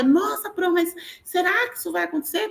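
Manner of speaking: high-pitched imitation of a doubtful pupil; high, incredulous schoolchild quote; pupils' disbelief. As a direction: question teacher in a mock child's voice. Acts out pupils' worried question.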